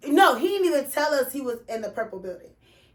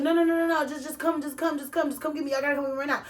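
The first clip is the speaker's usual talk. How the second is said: imitating frantic pleading; 2 semitones higher, much faster than usual. Friend on hospital phone begging them to come, panicky pleading fading out. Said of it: "that's how he was talking".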